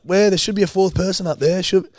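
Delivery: high, bright mock announcer call. Imitating the wedding MC at the mic. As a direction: ham up the emcee calling for a fourth person. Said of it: "And then they're like".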